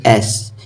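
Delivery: "एस" with a drawn-out front "ए" vowel; slow demonstration of "एस". Shown as a demonstration. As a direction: stretch the opening vowel of "एस". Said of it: "अ को ए पढ़ते हैं".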